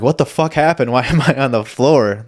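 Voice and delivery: just woke up on the floor, bewildered; confused. Retold or imitated. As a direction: sound dazed and shocked.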